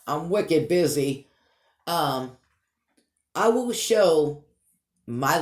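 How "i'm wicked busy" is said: Boston accent on "wicked busy"; Boston Yankee accent. Shown as a demonstration. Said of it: "there's my Boston Peabodyite Yankee accent".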